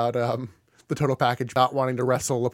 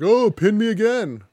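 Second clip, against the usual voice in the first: higher, put-on voice of giving up; mock surrender; 6 semitones higher than usual. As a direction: imitate a wrestler lying down for the pin. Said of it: "lays down like".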